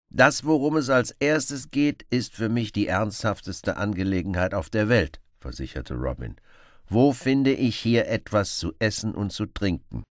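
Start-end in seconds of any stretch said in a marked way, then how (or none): 0.1-5.2 lively Robin Hood. Acted. Robin voiced. 6.9-10.0 lively Robin Hood. Acted. Robin voiced.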